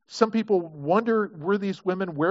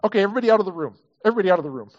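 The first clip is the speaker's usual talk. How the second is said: louder, firm clearing of the room; commanding Peter; 2 semitones higher, 5 dB louder, much faster than usual. Retold or imitated. Peter sending the mourners out, louder and firm. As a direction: take charge and send them out. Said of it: "He says".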